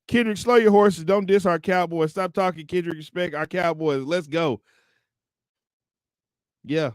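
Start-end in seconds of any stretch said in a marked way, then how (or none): 0.1-4.6 a hint of an irate fan; mildly mock the fan's scolding; reading the fan comment. Reading a fan's comment to a rapper, lightly mocking. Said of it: "here we go, right here".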